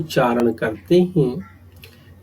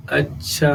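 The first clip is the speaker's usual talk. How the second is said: "अच्छा" with the last vowel held extra long; over-lengthened "अच्छा". Shown as a demonstration. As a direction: draw out the end of "अच्छा" beyond a long vowel. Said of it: "हमने इसे प्लुत रूप दिया".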